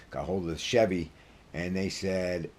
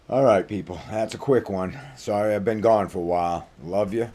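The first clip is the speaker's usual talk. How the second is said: upbeat sign-off; 3 semitones higher, 8 dB louder than usual. Real, not acted. Warm loud sign-off.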